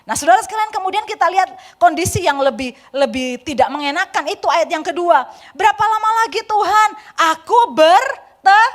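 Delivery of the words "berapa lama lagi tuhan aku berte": urgent cry to God. Acted. Preacher voicing Habakuk's cry.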